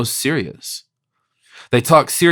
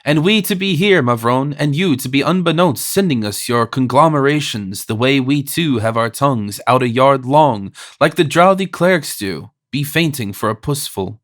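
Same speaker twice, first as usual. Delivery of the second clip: mock wail. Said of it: "He wailed".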